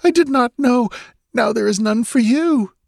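distraught, blaming herself; wailing girl. A narrator's reading. Girl laments drinking Conan's water, high tearful wail. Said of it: "she wailed".

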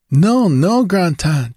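scream. Acted. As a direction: scream to stop the snake. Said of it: "she screamed".

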